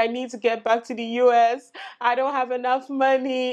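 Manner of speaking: acted crying voice. Speaker recounting being stuck in a bathroom stall, retelling crying. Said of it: "And I'd be crying".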